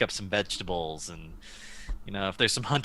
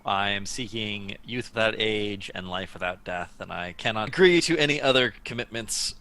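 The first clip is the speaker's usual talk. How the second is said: formal hero voice. Acted. Character's formal declaration.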